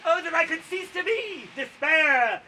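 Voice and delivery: high, loud theatrical wail; bewailing. Acted. Storyteller acts the poet bewailing his situation, loud wail. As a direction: wail it out in hammed-up despair. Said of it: "He bewails his situation".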